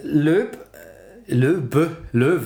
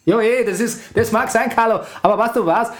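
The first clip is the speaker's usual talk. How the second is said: hammed-up Austrian accent, cocky. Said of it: "Mach Mario Götze mit österreichischem Akzent".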